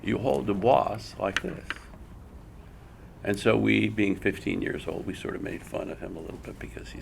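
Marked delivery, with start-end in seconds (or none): 0.0-1.6 slow, light Japanese accent imitation. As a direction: mimic the old Japanese teacher gently. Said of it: "I'm going to be imitating an accent".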